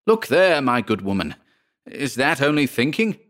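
a touch of exasperated disbelief; indignant challenge. Acted. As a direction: confront her, pitch jumping up. Lodger beside himself, challenges her.

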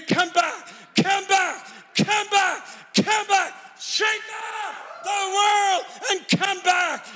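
rising shouted call to come back; fervent preaching. Real, not acted. Preacher calling the congregation back to Jesus. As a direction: plead with them to come back.

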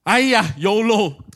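sudden bold resolve after hesitating; reckless decision. Retold or imitated. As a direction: fling the decision out boldly. Decides to throw CDs.

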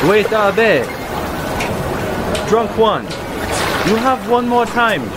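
character voice attempt. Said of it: "Still working on the voice".

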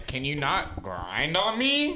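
slow, deliberate retold comeback; slow firm retort. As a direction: spell it out slowly to the guy. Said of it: "I look at him and I go".

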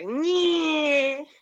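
high, loud drawn-out "nyee"; Batman noise. Retold or imitated. Comic showing the hosts his Batman sound, high drawn-out squeal. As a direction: hold one piercing squeal, pitched well up. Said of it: "It's Batman".

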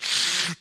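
imitated suction noise; short rushing whoosh; airplane toilet whoosh. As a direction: suck air like a flushing plane toilet. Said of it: "It goes".

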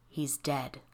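menacing growl. A narrator's reading. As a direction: growl it into her ear like a demon. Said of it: "something growled in her ear".

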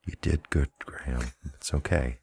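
gentle, hushed pretend comfort; mock consoling. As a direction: softly reassure a fallen comrade. Comforting a dying character in play.

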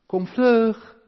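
loving parental call to come. Shown as a demonstration. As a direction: call like mum calling you to dinner. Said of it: "dan is het net of mama of papa je roept".

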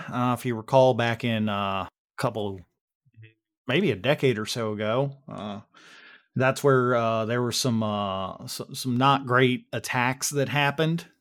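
folksy Texan, lightly put on; casual Texas twang, halting with uh's; Dan, Texas accent. Dan gives the group the lowdown, light Texas accent. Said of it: "I'm doing my best yeehaw here".

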